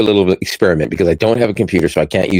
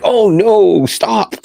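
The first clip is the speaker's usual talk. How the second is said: high-pitched mock alarm; "oh no" panic, played for laughs; retold panic; 13 semitones higher, much slower than usual. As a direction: replay a moment of panic, lightly hammed up. Retelling own panicked reaction.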